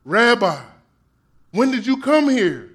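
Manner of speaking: sweet, eager and overly nice; butter him up with a bright, sweet greeting; very nicely. Acted. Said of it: "very nicely".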